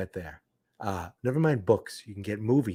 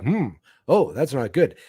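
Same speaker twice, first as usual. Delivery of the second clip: worried hmm. Retold or imitated. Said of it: "It was like".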